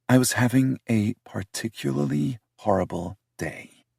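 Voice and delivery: defensive British woman voiced high; heroine's voice. Heroine after a defeated sigh.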